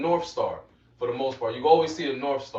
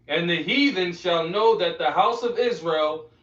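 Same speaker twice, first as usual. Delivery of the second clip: declaimed scripture, raised slightly in pitch; scripture reading; 2 semitones higher than usual. Acted. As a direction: read the verse out as a proclamation. Reads scripture aloud to listeners.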